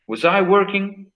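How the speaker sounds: "Was I working?" spoken slowly, word by word; slow model question. Shown as a demonstration. Teacher repeats the question slowly so students catch it. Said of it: "repeats the example slowly".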